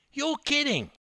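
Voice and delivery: high, disbelieving exclamation; stunned outburst at the price; astonished. Acted. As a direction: shoot up in disbelief. Stunned by tiny bill.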